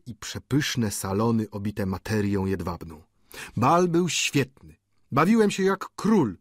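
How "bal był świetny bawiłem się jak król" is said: zachwycony student. Acted. Student opowiada o balu.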